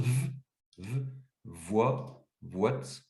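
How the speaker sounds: isolated sounds with pauses, growing into "voite"; sound-by-sound decomposition. Shown as a demonstration. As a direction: build "v", "voix", "voite" piece by piece. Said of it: "je décompose".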